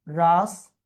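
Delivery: "রাষ্ট্রপতি" said "rash... tro... po... ti"; syllable-by-syllable pronunciation. Shown as a demonstration. Teacher writing the pronunciation, রাষ্ট্রপতি dictated syllable by syllable. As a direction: break "রাষ্ট্রপতি" into four syllables with long gaps. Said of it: "রাষ্ট্রপতি উচ্চারণটা লিখি".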